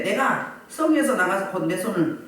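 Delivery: low, even read-aloud voice; measured Bible recitation, pitched low; scripture reading. Acted.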